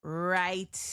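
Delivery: put-on slow, drawn-out West Indian accent with a punched exclamation. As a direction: savor each word in a West Indian accent. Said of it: "a West Indian accent felt like that was needed".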